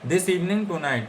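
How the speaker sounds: this evening tonight drawn out slowly; slow dictation. Shown as a demonstration. Teacher dictating the meaning for notes, very slow. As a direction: read it out slowly so students can write. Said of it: "कोनबान का मतलब होता है".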